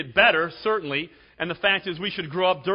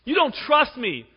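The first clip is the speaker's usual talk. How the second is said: higher, louder, pleading accusation; mock whiny Delilah; 8 semitones higher, 7 dB louder than usual. Preacher mimicking Delilah's whining at Samson. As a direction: play the hurt girlfriend demanding proof. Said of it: "She does this, you know".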